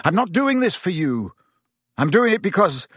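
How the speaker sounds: disgust. A narrator's reading. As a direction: push away with disgust. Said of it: "in disgust".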